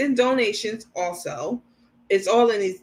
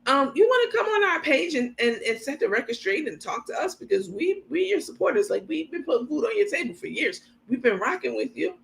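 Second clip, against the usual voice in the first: higher, wheedling mock plea; mock supporter; 4 semitones higher than usual. Vlogger voicing the supporter asking Carmen, pitched-up mock plea. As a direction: play the fan begging her to talk. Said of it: "Hey, ma'am".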